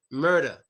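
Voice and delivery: "murder" said as "mur-da". Shown as a demonstration. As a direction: end "murder" on an open A. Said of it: "We pronounce the E R as an A".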